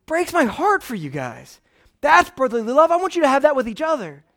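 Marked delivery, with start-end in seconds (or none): 0.1-1.6 tender. Real, not acted. Pastor speaks tenderly.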